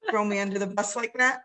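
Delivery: laughing through a mock complaint; laughing protest. Real, not acted. Wife put on the spot by the host, laughing protest.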